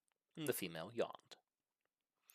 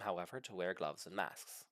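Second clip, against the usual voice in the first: whisper; 4 semitones lower, 9 dB quieter than usual. A narrator's reading. Whispered advice in narration.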